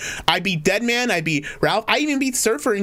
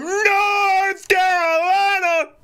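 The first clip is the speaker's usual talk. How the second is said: high, long-held showman cry; hammed-up slow announcer call; announcer hype; 13 semitones higher, much slower than usual. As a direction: stretch the place name way out, pitched up high. Host announces caller's location, showman style.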